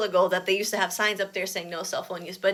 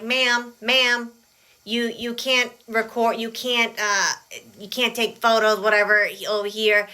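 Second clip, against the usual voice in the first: hesitant, stumbling mock official; stuttering; 2 semitones higher than usual. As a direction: stammer out the rule nervously.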